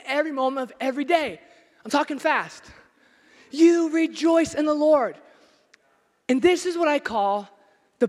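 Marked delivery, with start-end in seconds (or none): 3.5-5.2 slowed, louder command; preached command. Acted. Preacher commanding the congregation to rejoice. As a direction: press it home. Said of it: "preaching emphasis".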